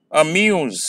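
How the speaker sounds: अम्यूज with a light अ and long falling म्यूज; natural second-syllable stress. Shown as a demonstration. Teacher introduces an example word to students, natural stress. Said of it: "जैसे आप naturally किया करते हैं".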